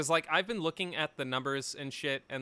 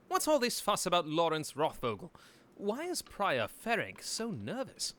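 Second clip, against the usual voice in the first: character voice; 3 semitones higher than usual. Acted. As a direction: read the hero's line in character. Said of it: "I dropped my character voice".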